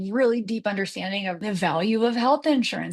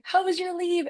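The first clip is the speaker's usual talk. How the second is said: high eager question; retold excitement; 10 semitones higher than usual. Asking the returning mother, excited and much higher. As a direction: ask it bubbling with excitement. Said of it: "super excited".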